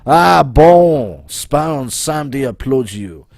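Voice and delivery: delighted French cry, settling into instruction; put-on French accent. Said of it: "my accent".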